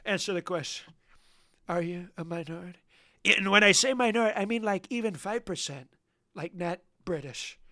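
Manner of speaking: lightly voiced stern interrogator; playful pretend border guard grilling the caller; mock jailer. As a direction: lock him up like a pompous warden.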